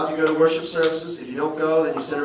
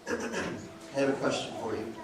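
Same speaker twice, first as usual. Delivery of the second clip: calm question; 6 dB quieter than usual. Retold or imitated. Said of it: "Sometimes a question is more powerful".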